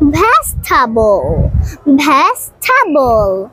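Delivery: ভেজিটেবল said slowly as "vej-ta-bol", three syllables; slow careful ভেজিটেবল with the middle e dropped; correct pronunciation. Shown as a demonstration. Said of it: "আমি একটি সঠিক উচ্চারণ বলবো".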